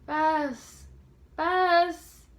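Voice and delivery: high, loud call from a distance. A narrator's reading. George calling Bess from the tool house, shouting. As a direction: shout her name to be found.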